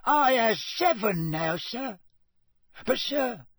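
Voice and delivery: high, wondering house-elf squeak; Dobby. A narrator's reading. Dobby counts his socks for Harry, high squeaky voice. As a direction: squeak in wide-eyed wonder.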